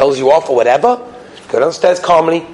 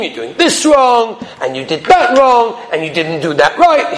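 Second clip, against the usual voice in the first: criticizing; 4 semitones higher, slower than usual. Retold or imitated. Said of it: "She was always criticizing him".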